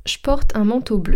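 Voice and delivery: „je porte” loudly as „shporte”; potoczne ściągnięcie. Shown as a demonstration. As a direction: turn „je” into sh before „porte”, projected. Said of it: "son je qui devient che".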